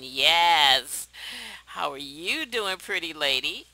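voicing Mister Cap.

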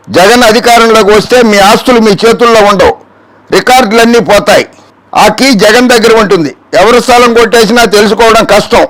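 emphatic quoted warning; declamatory read-out. Acted. Host reading out a rival's warning about property, declamatory. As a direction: read it out as a public alarm.

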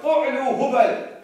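high, loud, drawn-out war cry; screamed out. Acted. Enemy leader hails his idol to the other side, screaming out. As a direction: bellow a slow rallying chant. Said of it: "then Abu Sufyan screamed out".

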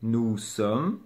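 "Nous sommes" slow, s of "Nous" silent; no liaison. Shown as a demonstration. Teacher repeating a case without liaison, slow demonstration. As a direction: lengthen each word of "Nous sommes". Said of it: "il n'y a pas de liaison".

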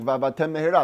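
"va'avatem mehera" merged, the two m's fused into one; run together. Shown as a demonstration. Teacher demonstrating the wrong, merged reading. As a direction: swallow the gap in "va'avatem mehera". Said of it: "it's one long word".

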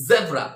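"জেব্রা" with a vibrating z; buzzing Z. Shown as a demonstration. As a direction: buzz the z in "জেব্রা", teacher's model. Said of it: "এখানে কম্পন থাকবে".

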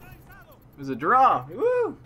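loud drawn-out cheer soaring high; excited cheer. Real, not acted. Gamer cheering as the match ends in a draw.

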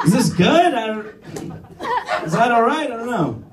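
anxious unsure questions. Retold or imitated. Unsure during oral sex.

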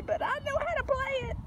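high puppy voice; be the puppy, bright and high; voicing the dog. Owner speaks as the puppy in a high voice.

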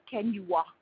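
imitating a designer's heavy French accent. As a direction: put on a French accent for the question. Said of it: "in a very heavy French accent".

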